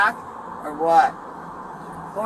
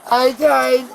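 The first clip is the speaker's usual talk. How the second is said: desperate high begging; pleading; 4 semitones higher than usual. Real, not acted. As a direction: beg to be let out. Arrested woman begs to be released.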